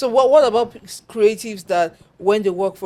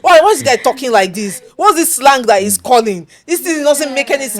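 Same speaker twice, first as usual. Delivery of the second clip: louder, higher mock indignation; upset art director; 5 semitones higher, 5 dB louder than usual. Art director scoffing at client's Pidgin slang, upset. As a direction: imitate an annoyed, disbelieving rant. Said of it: "And he was upset".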